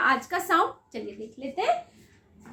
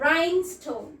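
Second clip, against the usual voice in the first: rhinestone said very slowly once more; slow careful word; much slower than usual. Shown as a demonstration. Teacher repeating rhinestone slowly for kids. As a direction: drag out rhinestone syllable by syllable. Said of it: "इधर भी VCE ही है".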